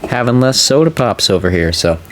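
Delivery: sore mouth, careful speech; after wisdom teeth. Real, not acted. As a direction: talk gently around a sore jaw. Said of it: "I got my wisdom teeth out".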